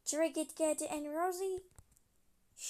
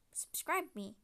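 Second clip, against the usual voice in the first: soft unvoiced whisper; 8 dB quieter than usual. Child whispers subscribe plea to viewers, whispering. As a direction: whisper the request.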